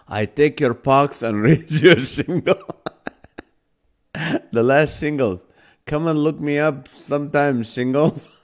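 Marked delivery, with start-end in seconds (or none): 0.1-2.8 laughing through the pun. Real, not acted.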